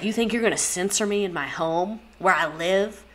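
lightly voiced Southern husband; a touch of Southern indignation; Southern accent. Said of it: "I'm doing a Southern accent".

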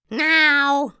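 loud, sharp parental order; firm command. A narrator's reading. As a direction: demand she come in. Parents order her inside.

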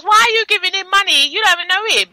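high-pitched mock indignation; retold scolding. Retelling a mother on the designer, mock indignant. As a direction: imitate an indignant mother questioning the spending. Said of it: "So she goes".

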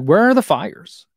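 lightly voicing his daughter, puzzled; daughter's curious question. Dad voicing his daughter's question about the fires, slow and curious.

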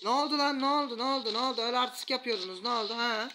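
sing-song jeering at a beaten foe; mocking taunt. Real, not acted. Taunting enemies after a win.

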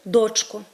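дочко with the beat on ДОЧ; stress on first syllable. Shown as a demonstration. Teacher showing the vocative exception, stress on ДОЧко. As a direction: call form ДОЧко, stressed at the start. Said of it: "але в кличному відмінку".

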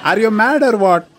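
incredulous laughing outburst. Acted. Caller exasperated at agent.

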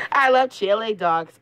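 high cheerful cartoon hero; Sonic voice. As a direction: say it bright and quick. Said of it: "I'm Sonic the Hedgehog".

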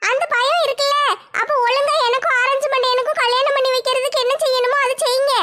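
put-on a stubborn girl holding her ground; young woman Nimmi. Nimmi bossy.

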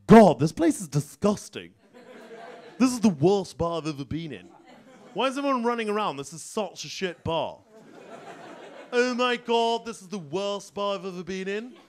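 lightly voiced snooty elephant; a hint of an arrogant toff; posh snob. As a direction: sneer at the bar like a spoilt student. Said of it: "That's why he talks like such a cock".

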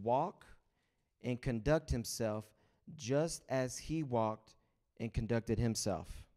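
slow, weighty reading of the verse; scripture reading. Acted. Pastor reading First John to the church, slow and weighty. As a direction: read each phrase slowly for the congregation.

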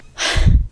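heavy breath out; breathless sigh. Real, not acted. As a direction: exhale hard, winded. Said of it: "Sorry, I'm out of breath".

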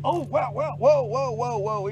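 high, urgent whoas while landing a fish; excited. Real, not acted. Fisherman landing a catfish, high excited whoas. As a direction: coax the fish in, keyed up.

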